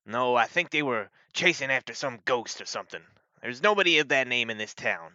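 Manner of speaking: a touch of firm, scoffing certainty; dismissive sheriff. Acted. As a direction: dismiss the idea as a town lawman.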